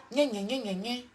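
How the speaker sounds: sing-song gna gna taunt; childish mocking gna gna; mocking babble. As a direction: mimic her as empty chatter. Mocking the rival's talk.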